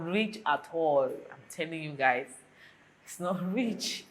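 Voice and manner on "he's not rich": a laugh breaking into the word. Real, not acted. Laughing as she tells viewers her dad is not rich. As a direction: chuckle through the line, slowed down.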